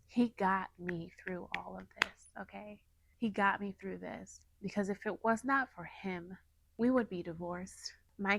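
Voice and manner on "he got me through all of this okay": whisper. Real, not acted. Testimony about God's help.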